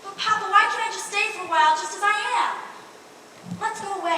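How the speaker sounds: a bride pleads with her father before the wedding, frantic; desperate pleading. Acted. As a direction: beg him to let her stay.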